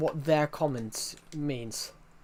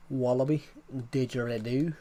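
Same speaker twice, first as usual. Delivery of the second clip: a hint of an Aussie accent on "Wallaby, didgeridoo"; Australian accent. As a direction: try out Aussie words in a mock accent. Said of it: "I still gotta work on the accent".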